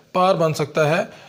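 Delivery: پار said slowly and clearly, with a rise; slow, careful پار; wrong spelling demo. Shown as a demonstration. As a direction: warn that پار could be misread. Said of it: "ہم یہ غلطی کر دیتے ہیں".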